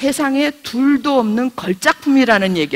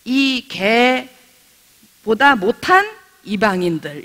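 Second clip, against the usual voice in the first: contemptuous sneer; much slower than usual. Retold or imitated. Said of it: "쳐다보기를 개만도 못하게 쳐다봤거든요".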